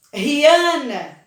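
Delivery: a name called slowly, stretching the middle syllable; drawn-out name call, weight on the middle syllable; calling, stressed syllable. Shown as a demonstration. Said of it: "uma que eu chamo com mais força".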